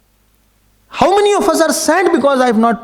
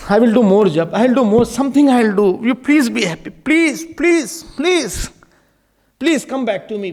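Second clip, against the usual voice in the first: crying plea. Acted. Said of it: "if I can cry and say".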